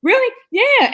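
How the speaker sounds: high, quick incredulous question; surprised really. Retold or imitated. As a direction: jump up in disbelief. Mother's retold reaction.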